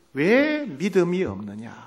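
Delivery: slow, soft reproach; measured rebuke. Acted. Jesus rebukes the disciples' lack of faith, slowly and softly. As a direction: draw the question out in disappointment. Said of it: "제자들을 꾸짖습니다".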